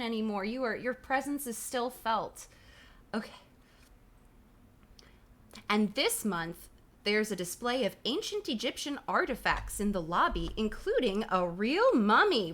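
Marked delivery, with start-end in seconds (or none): 5.7-12.5 animated read-aloud, big swoops on key words; punchy, emphatic storybook reading; story narration. A narrator's reading. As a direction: build up the exhibit for the listeners. Reads the book aloud.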